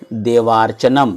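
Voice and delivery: "देवार्चनम" slowly, with a long, held आ in वा; लंबा आ उच्चारण. Shown as a demonstration. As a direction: draw out the joined vowel in "देवार्चनम". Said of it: "आ का उच्चारण करते हैं". ("देवार्चनम" में वा का आ खींचकर, धीरे बोलें)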